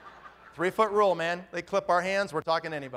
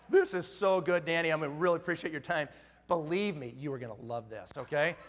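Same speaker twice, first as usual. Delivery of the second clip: retold sincere pitch; 5 semitones lower, 4 dB quieter than usual. Retold earnest pitch to Danny.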